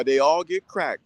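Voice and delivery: ordinary talk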